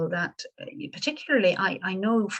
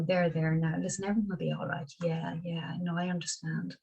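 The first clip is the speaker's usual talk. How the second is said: brisk, softer, absent-minded there-there; going through the motions of sympathy, a little softer; hollow soothing; 5 dB quieter than usual. Retold or imitated. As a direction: pat them off with empty comfort. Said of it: "'Cause it's that sort of".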